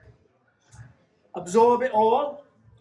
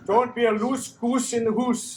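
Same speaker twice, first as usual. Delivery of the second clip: put-on Scottish accent; 2 semitones higher than usual. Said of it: "I'm gonna do my best Scottish accent now".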